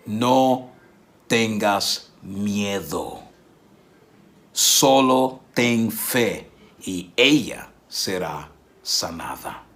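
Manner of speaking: slow, gentle words of comfort; calm a frightened father slowly; slow reassurance. Retold or imitated. Jesus to Jairo, slow and reassuring.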